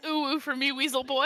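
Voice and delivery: a hint of a high, teasing ooh ooh; mock Prince, playfully; lightly voiced playful tease; lightly imitating Prince. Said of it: "As Prince says".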